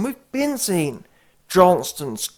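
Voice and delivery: normal talking voice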